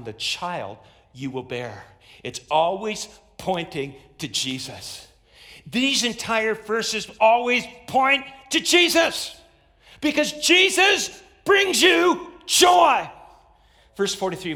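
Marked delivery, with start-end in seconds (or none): 5.7-13.1 high, loud shout, building to the last word; full-force preaching. Real, not acted. Preacher proclaiming that Jesus brings joy, shouted. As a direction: drive it home slowly and loudly to the congregation.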